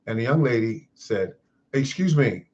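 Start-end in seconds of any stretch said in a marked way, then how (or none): 1.7-2.5 mildly indignant, higher-pitched retort; retold angry tone. Young lady answering the man who spoke to her son, mock angry. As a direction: mimic an affronted young woman, pitch raised. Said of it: "in a very angry kind of tone".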